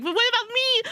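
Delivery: high mock-wail through laughter; laughing wail. Real, not acted. Complaining about missing flags, laughing high wail.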